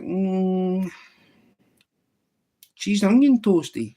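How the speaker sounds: the rabbit can't believe there's only onion. Acted. Rabbit surprised at menu.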